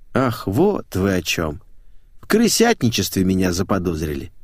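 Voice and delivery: lightly amused scoff; understated, unbothered huff at the accusation. Acted. Employee realizing she's suspected of betrayal, scoffing. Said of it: "хмыкнула Капустина".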